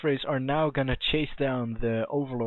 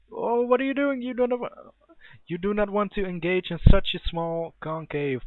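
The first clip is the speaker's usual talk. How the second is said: sudden high-pitched alarmed cry; surprised outcry; 7 semitones higher than usual. Real, not acted. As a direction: cry out in disbelief at the misplay. Caster reacts to bad engagement.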